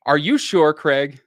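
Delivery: mother's doubtful question; suspicious mom. Retold or imitated. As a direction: lean on him, doubting. Mom pressing on phone.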